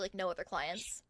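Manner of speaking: whispered. Retold or imitated. Trailing off in a quiet voice.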